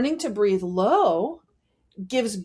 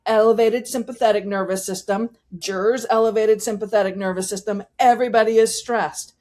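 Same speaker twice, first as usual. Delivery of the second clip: tense high breathing; faster than usual. Shown as a demonstration. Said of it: "Now I'm gonna start breathing high".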